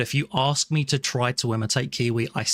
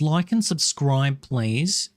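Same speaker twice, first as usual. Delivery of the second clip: slow mock plea; slower than usual.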